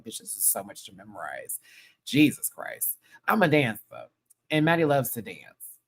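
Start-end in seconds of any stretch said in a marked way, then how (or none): 0.0-1.6 quiet. Retold or imitated. Retold thought, much softer.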